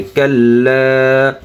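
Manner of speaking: কাল্লা with the final লা drawn out; one-alif stretch. Shown as a demonstration. Teacher shows one-alif length, stretched কাল্লা. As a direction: lengthen the last vowel of কাল্লা slowly. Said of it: "এজন্য এক আলিফ টান হবে".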